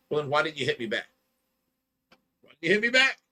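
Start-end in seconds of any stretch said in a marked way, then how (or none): 2.4-3.2 indignant repeat. Retold or imitated. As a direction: push the question hard the second time. Repeats question, second louder.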